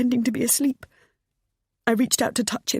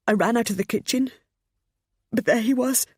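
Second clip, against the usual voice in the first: raised, rushing panic; panicked; 7 semitones higher than usual. Acted. Pammy recounting her escape to her son, panicked. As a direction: hurry it like you're fleeing.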